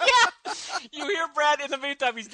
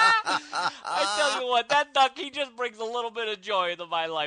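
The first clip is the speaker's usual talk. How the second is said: put-on New York accent; 2 semitones higher than usual. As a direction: talk like a pushy New York cabbie. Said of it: "my accent there".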